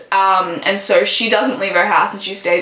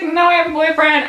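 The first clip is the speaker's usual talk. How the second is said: higher, firm little refusal; girl refusing; 7 semitones higher than usual. Retold or imitated. Zoe turning Dylan down, mock firm. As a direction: brush him off lightly. Girl voiced in book summary.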